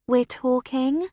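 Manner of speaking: slow, drawn-out sarcasm; sarcastic. Acted. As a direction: say it dripping with sarcasm. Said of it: "Olivia says in a sarcastic voice".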